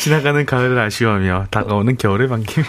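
very low, rich reading voice; deep low voice. Shown as a demonstration. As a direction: read it in a deep bass. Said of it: "목소리 톤 너무 좋다". (아주 낮고 굵은 목소리)

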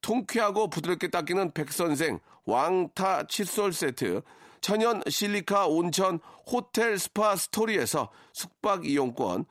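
brisk ad read of prize list; sponsor list read. Acted. (라디오 협찬 광고 낭독)

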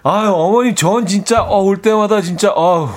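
hammed-up appreciative sighing; fawning daughter-in-law. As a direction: gush to the mother-in-law with put-on delight. Acting fawning sister-in-law at table.

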